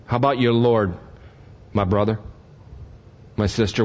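usual speaking voice

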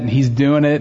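ordinary talk, nothing marked

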